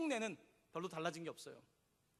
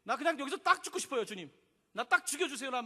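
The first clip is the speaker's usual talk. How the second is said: exasperated plea; 4 semitones higher, 5 dB louder than usual. Retold or imitated. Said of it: "얼마나 성질 났는지".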